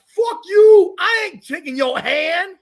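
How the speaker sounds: mock angry yell, high and loud; imitating Gino. Streamer acting out Gino refusing the handshake, mock yell. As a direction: bark it like a coach storming off. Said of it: "He's like".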